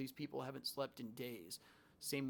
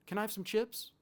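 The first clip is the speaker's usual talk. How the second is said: innocent patient; 8 semitones higher, 5 dB louder than usual. Retold or imitated. Patient suddenly calm, asks snack.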